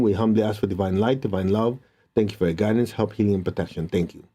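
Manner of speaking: hushed opening blessing; invocation prayer. Acted. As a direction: pray it humbly, settling down. Invocation prayer before meditation.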